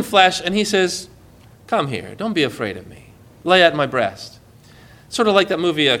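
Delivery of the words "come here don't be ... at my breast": soft, low, reassuring invitation; gentle invitation. Acted. Jesus inviting his disciple close, gentle. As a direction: invite softly, calming their fear.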